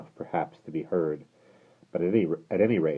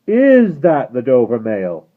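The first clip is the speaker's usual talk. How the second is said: high, slow distant call; calling from afar; 7 semitones higher, 14 dB louder, slower than usual. Acted. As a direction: call through the fog. Rider calling from mist again.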